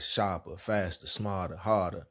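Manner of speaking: relaxed DC accent, let the R's fall away. Shown as a demonstration. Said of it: "That's my D C accent".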